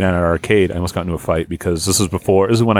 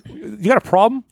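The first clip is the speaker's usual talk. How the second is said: high mocking tough-guy challenge; 13 semitones higher than usual. Retelling the arcade guy, mocking his challenge. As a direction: ham up the angry stranger. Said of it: "And he was like".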